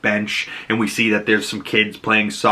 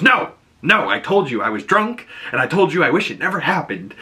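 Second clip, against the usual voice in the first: snapping; 5 semitones higher than usual. Retold or imitated. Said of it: "she snaps".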